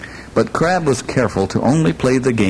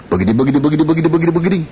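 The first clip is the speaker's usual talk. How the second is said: a playful sing-song that climbs much higher as it goes; rising silly sound effect; 7 semitones higher, much faster than usual. Acted. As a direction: let the nonsense words float up like eyes drifting out to sea. Eyes rolling away, sound effect.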